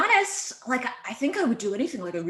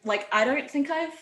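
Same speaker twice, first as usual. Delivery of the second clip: casual Aussie conversational voice; Australian accent; 3 semitones higher, 3 dB louder than usual. Shown as a demonstration. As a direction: friendly chat in an Aussie accent. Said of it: "switch now to my Aussie accent".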